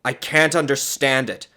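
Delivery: high, loud bewilderment; amazed. A narrator's reading. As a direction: marvel at it, baffled. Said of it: "he said with amazement".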